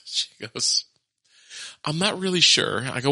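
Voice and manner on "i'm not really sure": put-on confused child. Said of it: "she gets this confused look".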